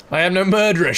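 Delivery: lying while holding back laughter; stifling a giggle. Acted. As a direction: barely keep the giggle in. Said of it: "she lied, stifling a giggle".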